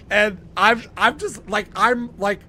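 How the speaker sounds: high, loud words through laughter; laughing while talking. Real, not acted. Telling the podcast host the story, words through laughter. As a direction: talk while still cracking up. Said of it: "hurting from laughing so hard".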